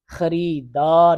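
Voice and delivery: خریدار drawn out slowly; slow dictation. Shown as a demonstration. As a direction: stretch خریدار so they can write it. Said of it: "teacher dictating word".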